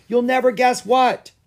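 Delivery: high, loud, bursting with news; calling out. A narrator's reading. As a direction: call it out eagerly to a friend. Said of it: "called Lucas".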